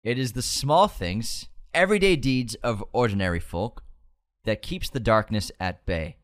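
slow reading. Shown as a demonstration. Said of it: "Say it again".

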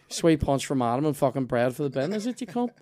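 mock indignation. Diner protesting removed bread, mock-indignant. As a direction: grumble loudly, pitching up the final question. Acted complaint about waiter.

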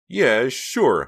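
eager. A narrator's reading. Eager agreement.

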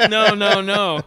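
loud, high mock refusal; imitating a friend's over-the-top objection; mock protest. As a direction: cry out in exaggerated protest. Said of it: "Don't act like you're like".

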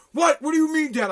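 mock-offended kid voice; indignant kid. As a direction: play a son taken aback by his dad. Son's offended reaction voiced.

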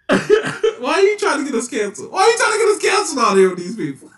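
high, loud laughing protest; laughing shout. Real, not acted. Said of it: "laughing shout at partner".

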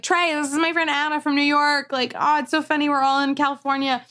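high-pitched imitation of an excited friend; gushing introduction. Friend gushes while introducing her.

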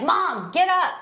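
lightly voiced kid calling mom to get up; pestering little-kid wake-up call; kid waking mom. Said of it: "send one of the kids in to wake me up".

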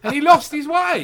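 chuckling through the words, slow; laughing. Real, not acted. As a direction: laugh it out slowly. Laughing about a boozy player.

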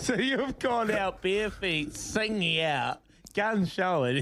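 slow, laughing tease. Real, not acted. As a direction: laugh through the teasing. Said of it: "laugh heard while teasing".

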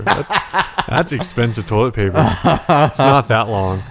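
talking through laughter; amused, laughing as you speak. Real, not acted. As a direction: let the laugh break into the words. Laughing at a toilet paper joke.

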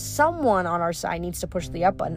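mocking, sing-song villain; gleeful wicked witch. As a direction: taunt them gleefully. Pasiphae taunts with choice.

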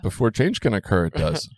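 light Yoda imitation, mostly own voice; scrambled Yoda phrasing, playful. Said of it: "so I can sound like Yoda".

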